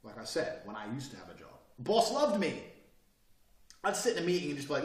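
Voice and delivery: usual speaking voice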